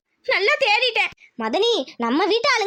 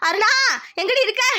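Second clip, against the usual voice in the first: raised-pitch searching call. Acted. Woman feeling poisoned calls for Aruna, calling out. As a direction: call out for someone elsewhere in the house.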